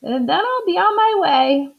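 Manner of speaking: high, breezy helper; matter-of-fact, cheery; Amelia offhand. Acted. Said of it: "said Amelia Bedelia".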